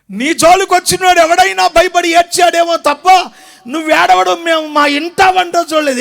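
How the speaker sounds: loud, incredulous scolding; loud disbelief. Acted. Elder telling Jephthah he never cried, loud disbelief. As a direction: shout your disbelief.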